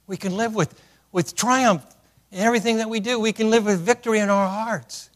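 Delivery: loud, high and ringing; rising proclamation. Real, not acted. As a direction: lift it up like a triumph. Preacher builds to proclaim.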